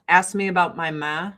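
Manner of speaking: flat Chicago-area Midwestern vowels; Midwestern accent. Shown as a demonstration. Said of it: "most Midwestern you've ever sounded".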